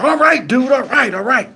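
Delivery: retold hurried giving in, starting high; placating. Officer giving in to an angry driver, placating. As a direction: imitate someone backing off to settle things. Acted cop backing down.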